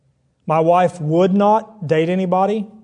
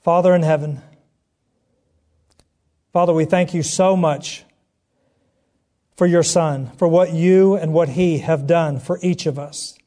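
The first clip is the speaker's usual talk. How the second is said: prayer. Acted. Leads prayer.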